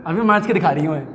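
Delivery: put-on grumbling girl. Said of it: "ऐसा लड़कियाँ बोलती हैं".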